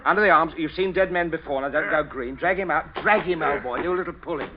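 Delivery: brisk loud orders; loud commanding. Acted. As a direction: bark out the orders.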